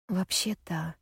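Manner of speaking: whispered hesitantly after a long pause; almost voiceless, reluctant admission. Acted. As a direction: breathe it out, unsure. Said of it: "после долгой паузы произносит Бин".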